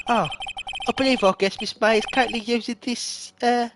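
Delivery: a lightly done butler bowing out; the bellboy as a Batman butler taking his leave, lightly voiced; Michael Caine. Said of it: "let's do a Michael Caine voice".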